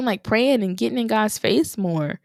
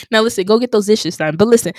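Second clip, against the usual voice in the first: laughing while playing mom; 6 dB louder, faster than usual. Real, not acted. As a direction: talk through laughter, louder.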